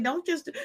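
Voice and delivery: high gasping whimper, shown as a small cry; mock little cry. Shown as a demonstration. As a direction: act out a tiny weepy gasp. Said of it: "teensy tiny little, teensy weensy little weeping cry".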